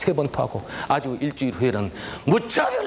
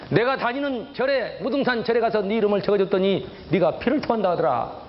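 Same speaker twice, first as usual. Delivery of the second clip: sister's warning; 5 semitones higher than usual. Retold or imitated. Sister quoted, slow and high.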